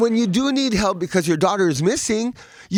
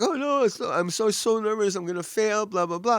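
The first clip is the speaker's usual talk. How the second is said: nervous; 4 semitones higher than usual. Retold or imitated. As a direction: imitate a student fretting before an exam. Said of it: "She was so nervous".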